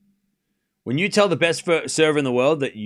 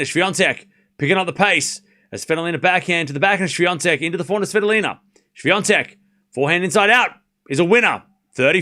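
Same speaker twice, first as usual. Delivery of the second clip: play-by-play; faster than usual. Real, not acted. Live tennis play-by-play.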